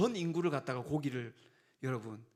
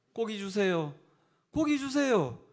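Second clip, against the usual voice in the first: pestering, rising louder begging for meat; mock nagging; 3 semitones higher, 3 dB louder, slower than usual. Preacher mimics congregation nagging for meat, building louder. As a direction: nag louder each time. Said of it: "고기 달라고 이야기하면".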